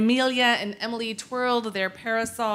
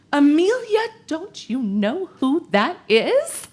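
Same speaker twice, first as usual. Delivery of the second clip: higher, louder, urgent gossip; urgent whisper-shout; 7 semitones higher, 5 dB louder than usual. Acted. Emily urgently gossiping to Amelia about the gentleman. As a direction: grab her friend with the news. Emily clutches friend's arm.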